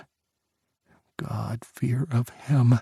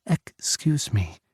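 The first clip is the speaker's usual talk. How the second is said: put-on accented English; slower than usual. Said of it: "she said again".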